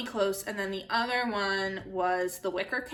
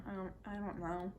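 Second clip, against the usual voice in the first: laughing softly; 13 dB quieter than usual. Real, not acted. Embarrassed, can't name a crush.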